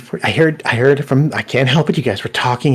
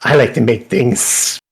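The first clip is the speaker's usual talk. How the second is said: cook voice; 3 semitones higher, 4 dB louder, slower than usual. Acted. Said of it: "It's just".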